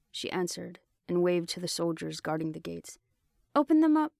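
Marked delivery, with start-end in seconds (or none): 3.5-4.1 much higher, louder call to guards. A narrator's reading. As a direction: shout the order across the gate. Calling to gate guards.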